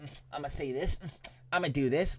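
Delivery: soft imitation of a secret note-taker; mock note-taking mumble. Streamer imitating the roommate writing down noises, soft mock self-talk.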